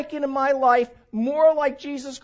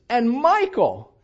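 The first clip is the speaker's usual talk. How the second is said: doting grandmother; 4 semitones higher, 6 dB louder, slower than usual. Retold or imitated. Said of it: "my grandmother in particular would say this".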